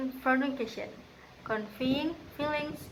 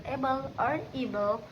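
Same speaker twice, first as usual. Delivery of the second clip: "able" with its opening syllable emphasized; first-syllable stress. Shown as a demonstration. Student demonstrating word stress, first syllable of "able" emphasized. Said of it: "which emphasize the first syllable".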